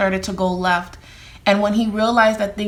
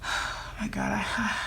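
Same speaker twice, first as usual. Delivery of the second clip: crying; 12 dB quieter, slower than usual. Real, not acted. Breaks down during emotional reading.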